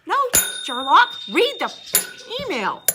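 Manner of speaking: mock the obvious question; sarcastic reply to a lazy emailer; sarcastic retort. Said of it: "my answer is".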